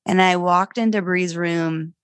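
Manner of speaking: ordinary talk, nothing marked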